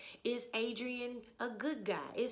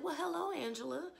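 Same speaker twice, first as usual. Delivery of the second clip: higher-pitched mock-casual hello, openly sarcastic; lightly acted sarcastic senator, pitched up; loud, sarcastic greeting; 6 semitones higher than usual. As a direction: imitate a nonchalant, pointed hello. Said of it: "he said it loudly".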